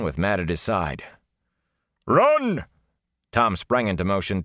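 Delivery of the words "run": much higher, louder yell; shout. A narrator's reading. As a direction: scream the order. Tom shouting at the boys.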